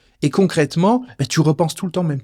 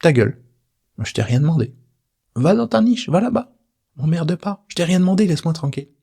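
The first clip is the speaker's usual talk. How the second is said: brushing off the inner voice, rising higher on the niche lines; telling it off; 3 semitones higher than usual. Pretend. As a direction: dismiss it like a pest you shoo away. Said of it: "je peux lui dire juste".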